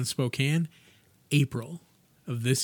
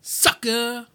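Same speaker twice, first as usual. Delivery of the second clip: mock taunt; 10 semitones higher, 5 dB louder than usual. Teasing taunt.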